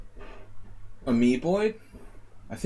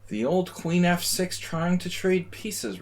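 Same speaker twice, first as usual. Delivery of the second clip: mocking repeat; 8 semitones higher, slower than usual. Mocking repeat of own phrase.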